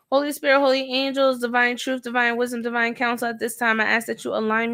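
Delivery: quick murmured invocation; prayer. Acted. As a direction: rattle off a familiar prayer.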